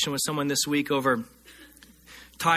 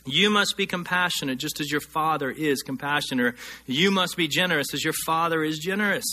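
usual speaking voice

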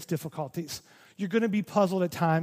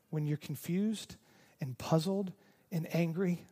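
lovingly. Retold or imitated. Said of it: "And I think very lovingly".

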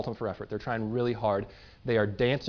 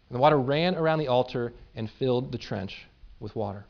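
measured, earnest Bible reading; dramatic scripture reading; 2 semitones higher than usual. Acted. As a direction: read the passage to the congregation with weight. Reads scripture aloud.

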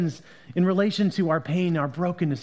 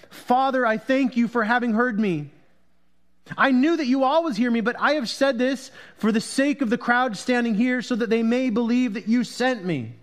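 raised, higher voice of prayer; prayer aloud to the Father; 5 semitones higher than usual. A narrator's reading. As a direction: pray it out to heaven for a crowd to hear. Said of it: "Jesus looked upward and said".

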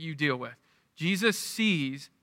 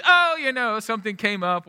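casual excuse opening on a high "oh"; lame excuse; 4 semitones higher, 3 dB louder than usual. Retold or imitated. Boy making excuses to his buddies, lamely evasive. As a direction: brush it off with a made-up excuse. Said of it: "I'd make up some lame excuse".

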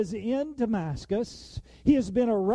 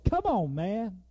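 come on man; 3 dB quieter than usual. Retold or imitated. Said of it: "They have a saying on there".

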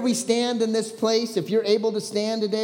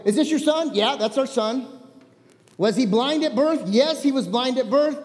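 lively, higher acted back-and-forth; passionate retelling; 5 semitones higher, 3 dB louder than usual. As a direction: play both sides of the exchange with energy. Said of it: "I was passionate".

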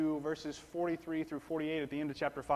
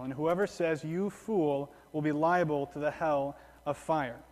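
scripture reading. Acted. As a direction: proclaim the words with weight. Reads verse twenty-two aloud.

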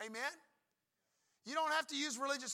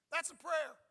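laughing; 5 semitones higher, 4 dB louder than usual. Real, not acted. Laughing after a mock sick prayer.

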